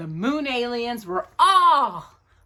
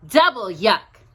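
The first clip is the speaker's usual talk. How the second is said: laughing; 3 dB louder than usual. Acted. Samantha teasing Sam, laughing as she says it. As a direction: double yuck through a laugh. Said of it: "laughed Samantha".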